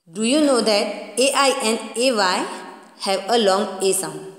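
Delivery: slow reading aloud. Shown as a demonstration. Teacher to children reading the textbook definition, slowly. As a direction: read the definition word by word, very slowly. Reads English question slowly.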